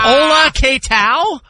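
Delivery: high slow mock Spanish greeting; mock Spanish accent. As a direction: draw out a cartoon hola.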